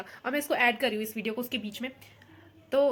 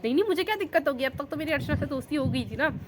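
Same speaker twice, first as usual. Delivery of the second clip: eager reply; 3 semitones higher than usual. Retold or imitated. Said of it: "मैंने कहा".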